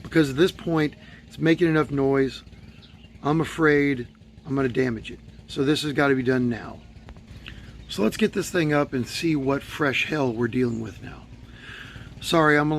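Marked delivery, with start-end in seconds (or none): 3.2-11.2 hoarse, worn-out voice; raspy from losing voice; voice giving out. Real, not acted. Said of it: "week four of losing my voice".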